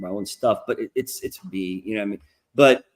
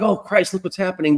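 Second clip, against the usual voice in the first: awed exclamation; 5 semitones higher than usual. Retold or imitated. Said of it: "you were like".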